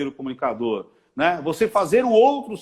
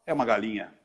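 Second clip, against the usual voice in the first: low, softer disapproving aside; imitated catty verdict; 8 semitones lower, 6 dB quieter, faster than usual. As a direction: drop it low, judging her under your voice. Wife's catty verdict, acted.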